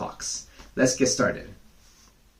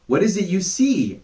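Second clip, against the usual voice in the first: a touch anxious; 8 semitones higher, 4 dB louder than usual. Acted. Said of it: "asked the fox a little anxiously".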